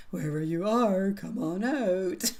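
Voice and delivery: slow, lightly spooky horror movie call. Pretend. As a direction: drawl it out like a mild mock horror villain. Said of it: "It kinda almost sounds like a horror movie".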